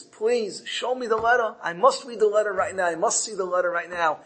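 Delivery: lightly acted tearful plea; pleading. Wife begging the merchant to show her the letter, pleading. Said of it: "starts crying and pleading and says".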